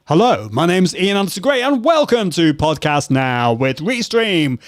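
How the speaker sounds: lightly put-on announcer read, savouring the name of the show; radio announcer voice. Shown as a demonstration. Host introducing his podcast on air, in a mild radio announcer voice. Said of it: "that kind of radio announcer kind of sound".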